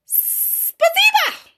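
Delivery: high, slow Russian thanks; Russian thank you. A narrator's reading. Old neighbour thanks the children in Russian. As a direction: say it warmly like an old Russian man. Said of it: "he said".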